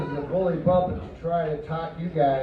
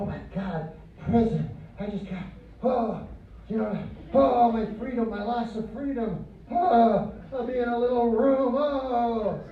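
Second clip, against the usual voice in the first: mock fearful lament; 5 semitones higher than usual. Comic mocking people afraid of prison, fake fearful whine. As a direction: moan "oh" in pretend dread. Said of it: "why are you afraid of prison?".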